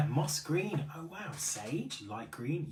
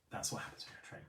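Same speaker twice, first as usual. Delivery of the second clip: laughing; 8 dB quieter, much faster than usual. Real, not acted. Laughing about train connection.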